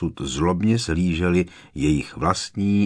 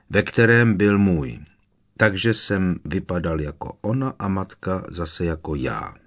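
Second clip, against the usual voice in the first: flat toneless confession; 4 dB louder than usual. Acted. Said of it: "jednotvárným, bezvýrazným hlasem spustil".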